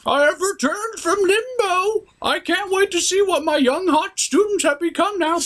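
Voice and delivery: a hammed-up smug returning sorcerer; wizard character.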